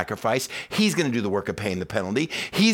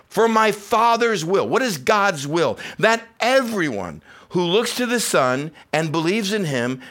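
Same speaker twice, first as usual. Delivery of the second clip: higher and louder, driving each line home; preaching at full force; 7 semitones higher, 4 dB louder than usual. Acted. Pastor urging the congregation that everyone is welcome, preaching at full force. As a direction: preach it hard to the whole room.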